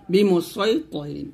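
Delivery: slow বিমু সয় তহিরিন with a thick, rounded s; heavy sad. Shown as a demonstration. Teacher showing the only allowed reading, heavy sad in সয়. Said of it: "এরকম ভাবে এখানে সদ পড়তে হবে".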